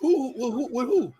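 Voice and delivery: breathless whispered questions; whispered who. Real, not acted. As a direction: hush it, puzzled. Confused hushed asking.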